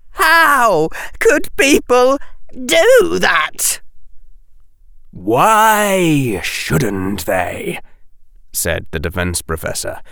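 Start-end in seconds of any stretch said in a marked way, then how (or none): 0.1-3.8 high, slow, louder in distress; a boy crying out, horrified; anguished cry. Acted. Harry anguished. 5.1-7.8 very slow and cool; a teacher's indifferent question; cold reply. Acted.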